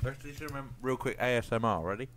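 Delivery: talking around an ice cube; words slurred by ice cube in mouth. Real, not acted. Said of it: "I've just put an ice cube in my mouth".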